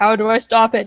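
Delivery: steady, composed, calm, even voice. Acting out a scene, copying someone who said it calmly: imitating a calm speaker. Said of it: "And then I say in a calm voice".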